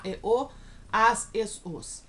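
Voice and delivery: ordinary talk, nothing marked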